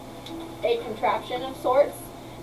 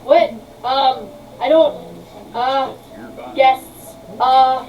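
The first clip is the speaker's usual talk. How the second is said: flustered inventor; 5 dB louder than usual. Acted. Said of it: "he literally goes".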